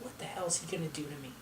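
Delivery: panicked thought. Retold or imitated. Scared child's inner thought.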